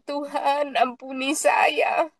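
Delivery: retold tearful prayer. Patient begs God's forgiveness for grumbling, mildly tearful. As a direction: plead slowly with a touch of tears. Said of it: "Saya menangis, saya bilang".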